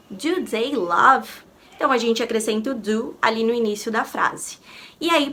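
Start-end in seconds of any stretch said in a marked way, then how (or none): 0.1-1.3 slow modelling. Shown as a demonstration. Teacher modelling an English question for students, slow and clear. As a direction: Do you love spoken very slowly and clearly. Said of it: "teacher modelling English question".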